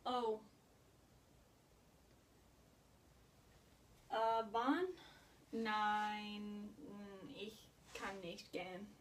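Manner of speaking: softly acted, halting refusal on the phone; subdued phone call. Girl on phone declining to go out over her looks, subdued.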